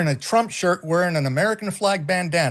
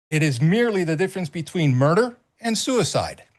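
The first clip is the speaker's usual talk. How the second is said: quote reading. Real, not acted. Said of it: "So this is Ayn Rand".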